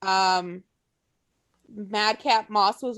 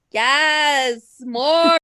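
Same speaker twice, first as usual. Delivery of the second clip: excited; 4 semitones higher, 6 dB louder than usual. Retold or imitated. Excited quoted cheer.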